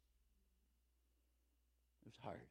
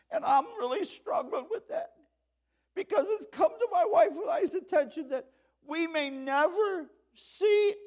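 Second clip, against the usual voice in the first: high, loud tearful retelling; 11 dB louder than usual. Retold or imitated. A pastor voices a weeping father telling him the news. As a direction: let the words break like a weeping dad. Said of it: "he starts bawling hard".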